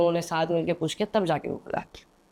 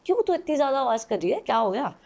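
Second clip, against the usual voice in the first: higher, scolding big-brother snap; 5 semitones higher than usual. Retold or imitated. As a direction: tell off your little sister sharply. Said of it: "वो उसको डांटने लग गया".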